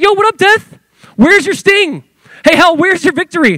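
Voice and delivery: Paul mocking death to its face; taunting death. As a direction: taunt death like calling out a rival. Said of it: "Paul starts taunting death".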